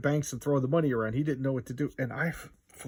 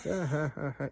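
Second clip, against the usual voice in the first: mocking laugh; 4 semitones higher than usual. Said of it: "he's just laughing at him".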